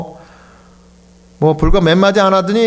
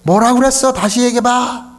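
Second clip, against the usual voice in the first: a pastor imitating his half-deaf father on the phone, raised and higher; imitating hard-of-hearing father's raised voice; 7 semitones higher than usual. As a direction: play the deaf old father calling out to be heard. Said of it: "큰 소리로 이야기하면서".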